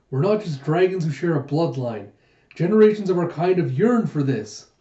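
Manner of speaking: fervent insistence. Acted. Gija earnestly insisting.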